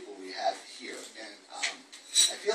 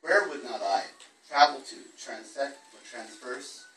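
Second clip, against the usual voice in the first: measured, unhurried poetry reading voice; poem reading; slower than usual. Acted. Reads his second poem.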